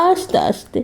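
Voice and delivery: whispered hush; whispering. Real, not acted. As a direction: breathe it out as a whisper. Hushing the baby gently.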